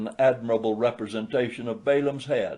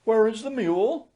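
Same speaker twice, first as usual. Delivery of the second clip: gentle; 11 semitones higher than usual. A narrator's reading. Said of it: "very gently".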